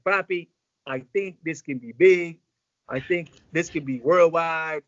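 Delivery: imitating a slow, emphatic prediction; slow, weighty pronouncement. Retells artist's big prediction.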